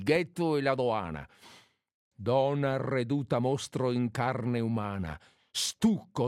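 measured, declaimed satirical verse; poem recitation. Acted. Reads Venier's insulting verses.

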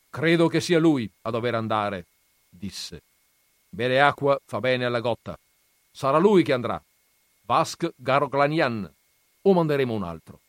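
un nonno severo appena accennato, più forte. Acted. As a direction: interroga il ragazzo con autorità. Nonno decide ai parenti. (nonno che interroga il nipote, tono severo leggero)

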